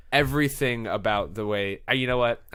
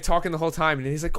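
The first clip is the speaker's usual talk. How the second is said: ordinary talk, nothing marked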